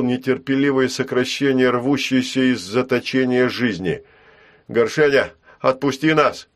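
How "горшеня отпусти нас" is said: shout. Acted. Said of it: "крикнул Ул".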